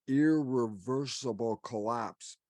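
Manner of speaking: "irreversible" stretched out slowly; slow right down on "irreversible", weighting it; stress on irreversible. Shown as a demonstration. Speaker warning the audience of collapse, "irreversible" slowly emphasized. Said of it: "let me emphasize the word".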